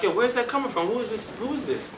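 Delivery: high, eager; excited calling out. Retold or imitated. Hearing a voice from the live room, high and excited. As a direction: call out, amazed by the voice.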